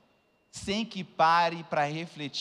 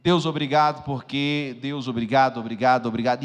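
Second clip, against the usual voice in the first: tearful thanks; 3 semitones lower, 7 dB louder than usual. Retold or imitated. Retold tearful thanks to God.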